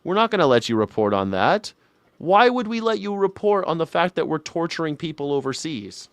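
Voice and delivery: mock-outraged authority, rising to a big "No"; mock indignation. Host playing censors scolding a reporter, mock indignation.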